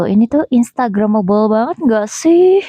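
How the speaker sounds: over-the-top gushing. Pretend. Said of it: "udah deh lebaynya".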